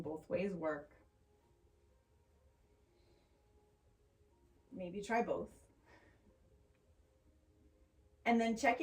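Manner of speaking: calm, unhurried yoga teacher voice; measured, soothing guidance with long pauses; guided meditation. Acted. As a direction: ease them gently into noticing the breath. Leads a grounding meditation.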